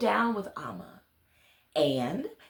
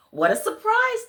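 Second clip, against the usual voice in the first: high, louder gasp of surprise; surprised; 11 semitones higher, 4 dB louder than usual. A narrator's reading. The whole palace hears the good news, surprised cry. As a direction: exclaim it in delighted surprise.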